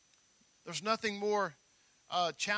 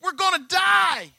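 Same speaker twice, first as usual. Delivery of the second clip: mock panic; 9 semitones higher, 9 dB louder than usual. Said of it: "It's like".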